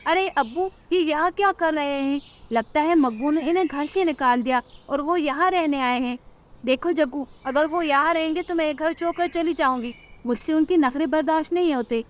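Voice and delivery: grumbling behind the door; surprised son then wife. Acted. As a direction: couple refusing the parents.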